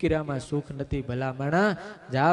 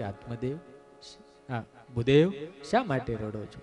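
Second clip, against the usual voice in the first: gentle consoling; 3 semitones lower, 3 dB quieter than usual. Retold or imitated. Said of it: "વાહામાં હાથ ફેરવીને કીધું".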